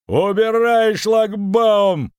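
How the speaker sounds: very high, loud, slow bark; barking order. A narrator's reading. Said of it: "рявкнул на алибардистов".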